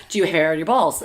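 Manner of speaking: asks the question through a laugh; half-laughing mock question; laughing while quoting. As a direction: giggle it out as mom teasing her son. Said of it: "I'm like".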